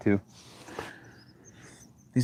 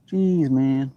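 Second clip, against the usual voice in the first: exasperated jeez; 5 semitones higher than usual. Real, not acted. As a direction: groan of disbelief. Disbelief at the hours.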